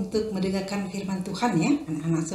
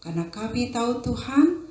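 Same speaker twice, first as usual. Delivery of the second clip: prayer; 2 semitones lower than usual. Acted. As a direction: lead the children in a hushed prayer. Teacher prays before the story.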